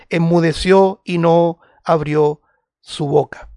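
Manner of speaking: solemn Bible reading with weighted pauses; emphatic scripture reading. Real, not acted. Reads the Bible passage aloud.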